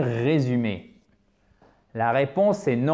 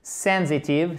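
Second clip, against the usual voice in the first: "Sensitive" with a strong SEN; "Sensitive", first syllable carrying the weight; stress on first syllable; slower than usual. Shown as a demonstration. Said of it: "sur la première syllabe".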